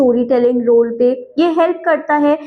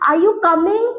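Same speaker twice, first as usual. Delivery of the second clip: "Are you coming?" with the voice lifting at the end, higher from the start; rising question tune; 4 semitones higher, much slower than usual. Shown as a demonstration. Teacher shows students a question's rise: "Are you coming?" climbs higher on "coming". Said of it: "questions में हम tone को थोड़ा राइ- बढ़ा देते हैं".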